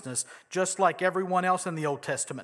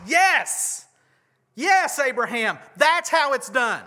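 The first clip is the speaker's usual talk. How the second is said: mock God; 7 semitones higher, 6 dB louder, slower than usual. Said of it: "And God goes".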